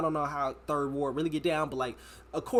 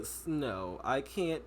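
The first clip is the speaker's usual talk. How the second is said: mock dispatcher; 4 semitones lower, 5 dB quieter, much slower than usual. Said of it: "the way he said it".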